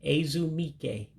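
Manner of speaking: Ezumike said slowly, each syllable clear; careful teacher pronunciation; slow Igbo demo. Shown as a demonstration. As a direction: sound out Ezumike for learners. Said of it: "So it's Ezu".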